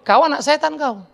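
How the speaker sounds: stern accusation; Jesus accusing. Acted. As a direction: point the finger and condemn. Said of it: "Lalu dia mengatakan". (menuduh dengan tegas)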